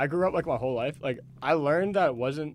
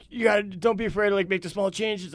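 mock advice-giving stranger; 6 semitones higher than usual. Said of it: "He was like".

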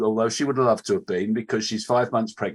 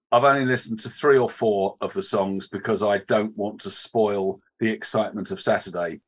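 sarcastic; 2 semitones lower than usual. Shown as a demonstration. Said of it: "he said through gritted teeth and in very sarcastically".

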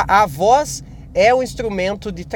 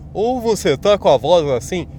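put-on altered timbre; another damaged voice. Shown as a demonstration. Podcaster showing another possible result for the voice, altered timbre. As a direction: demonstrate an alternative ruined voice.

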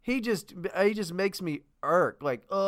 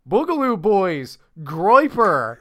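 loud, hammed-up news-anchor alarm on "Boogaloo Boys"; mock newscaster; 7 dB louder, slower than usual. Parodying TV news to his friend, loud mock alarm. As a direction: announce "Boogaloo Boys" like a grave TV headline, overplayed. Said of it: "and hear things like".

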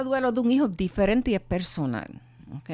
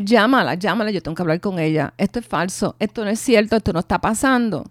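insistir fuerte y rápido; exigencia desesperada; 6 dB louder, faster than usual. Retold or imitated. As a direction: rechazar la noticia a gritos. Exige hablar, en negación. (exigencia desesperada y fuerte)

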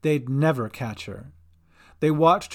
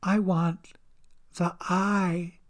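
higher, menacing creature voice; Dolly; 4 semitones higher, much slower than usual. A narrator's reading. Monstrous Dolly demands eye from Cat, menacing. Villain makes her demand.

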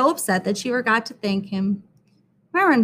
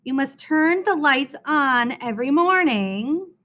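deliberate repeat; 3 semitones higher than usual. Acted. Miss Jules repeating herself to Myron, deliberate. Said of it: "I'll repeat myself only once more".

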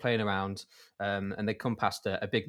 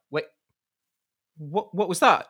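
surprised pilot; 6 semitones higher, 5 dB louder than usual. Retold or imitated. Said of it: "It's like".

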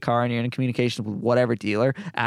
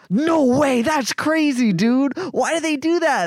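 much higher, louder disbelief; mock amazed tech; 5 dB louder, much slower than usual. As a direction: play the stunned tech.

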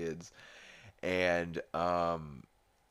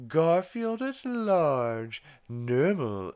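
high, slow, drawn-out put-on voice; cute reading voice; 11 semitones higher, 7 dB louder, much slower than usual. Stewie reading a Garfield book to the kids, cutely. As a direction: read it loud and high, stretching each word. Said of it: "that Stewie's being cute".

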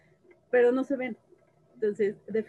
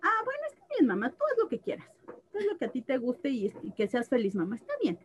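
imitating her son.

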